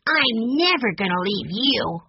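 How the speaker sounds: put-on high-pitched small child voice; earnest little boy. A narrator's reading. Benny snuggling against his grandfather, earnest child voice. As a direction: promise it like a devoted little boy.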